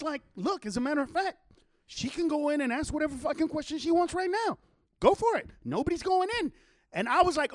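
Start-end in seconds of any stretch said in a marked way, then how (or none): 0.3-6.5 retold exasperated insistence, higher and quick; insistent retort. Man telling them she can go in, insistent retort. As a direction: wave them on, pitched up and fast.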